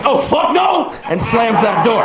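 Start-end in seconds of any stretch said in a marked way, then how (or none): 0.0-0.9 high, horrified outburst; imitating a stunned delivery guy; shocked refusal. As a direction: blurt it out in appalled disgust. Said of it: "and says".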